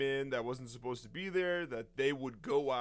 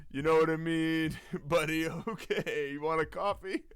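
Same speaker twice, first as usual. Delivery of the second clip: louder, laughing, humouring a strange visitor; coaxing guard; 2 semitones higher, 5 dB louder than usual. Retold or imitated. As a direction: talk him gently out of the room, barely holding back laughter. Guards coax helmeted man away.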